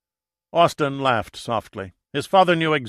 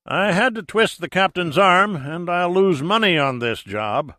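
gruff dad voice, raised and louder; gruff father; 6 semitones higher, 6 dB louder than usual. A narrator's reading. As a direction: push it out like a grudging gruff father. Father's voice in narrated phone call.

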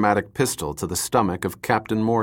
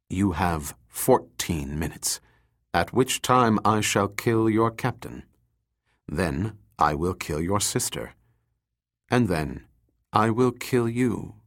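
cold; 3 dB quieter than usual. Acted. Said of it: "he said coldly".

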